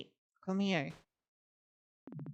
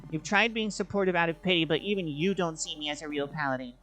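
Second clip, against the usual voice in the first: bitter, raised voice; bitter anger. Acted. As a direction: spit out the resentment. Argument continues, bitter.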